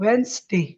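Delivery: Wednesday as WENS-day; two-syllable Wednesday, no first d; silent D. Shown as a demonstration. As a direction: model Wednesday as VENS-day. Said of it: "D is silent".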